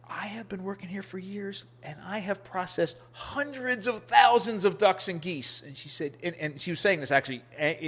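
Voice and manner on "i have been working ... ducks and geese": angry butcher woman. Retold or imitated. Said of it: "she was angry".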